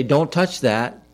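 slow, firm parental warning; a slow stern don't touch that. Retold or imitated. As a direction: hold each word of don't touch that, measured and firm. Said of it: "I had to yell at them".

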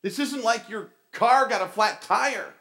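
high-pitched, urgent coaching; worked-up director's scolding; exasperated drama director. Retold or imitated. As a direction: imitate a director pushing an actor. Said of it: "He's like".

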